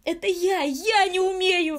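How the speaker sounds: high, loud wail of despair, slow; bursting into sobs. A narrator's reading. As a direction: break into sobs on the words. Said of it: "зарыдал вдруг маленький мастер". (высокий громкий рыдающий крик)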